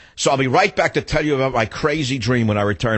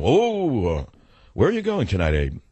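put-on old Jewish man voice. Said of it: "I'm doing voices again".

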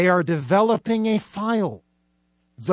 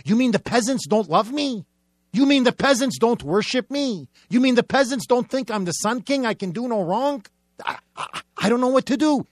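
mock bewildered king; 4 semitones higher than usual. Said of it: "like King Louis the Sixteenth".

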